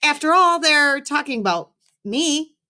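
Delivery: put-on high-pitched young boy pleading; high kid voice. A narrator's reading. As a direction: play the embarrassed kid, voice up high. Kid answers principal.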